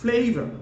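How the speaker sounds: flavor as high, drawn "FLAY-vuh"; correct pronunciation. Shown as a demonstration. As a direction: stretch the "ay" in flavor. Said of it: "we gonna pronounce like".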